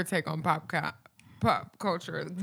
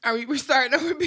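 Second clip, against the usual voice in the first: laughing through the words; breaking up with laughter; 9 semitones higher, 7 dB louder, faster than usual. Real, not acted. Laughing at the restart.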